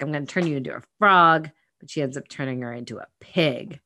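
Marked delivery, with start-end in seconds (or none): 0.0-1.5 mock threat. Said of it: "she's like".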